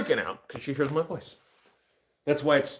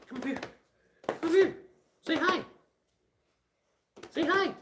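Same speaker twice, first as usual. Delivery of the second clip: coaxing puppy voice. Real, not acted. Owner coaxing the dog to say hi, high and sweet. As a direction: sweet-talk the dog toward the camera.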